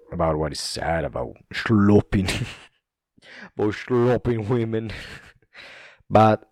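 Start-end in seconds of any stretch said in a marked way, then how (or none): 1.5-2.3 "sloping" said as "shloping"; S pronounced sh. Retold or imitated. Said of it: "he pronounces the ash". 3.6-4.9 "sloping" said as "shloping"; amused mimicry, "sloping" hushed into "shloping"; S pronounced sh. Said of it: "he pronounces the ash".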